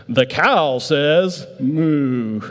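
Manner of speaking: slow, drawn-out toy announcer, then a mock moo; preacher imitates the See 'n Say toy for the congregation, slowly; talking toy. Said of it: "and it says".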